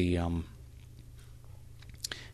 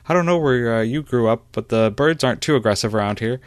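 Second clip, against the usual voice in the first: light, higher, louder ribbing; amused teasing; 4 semitones higher, 7 dB louder than usual. Acted. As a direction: tease a friend with a smile. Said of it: "kind of smiles to himself".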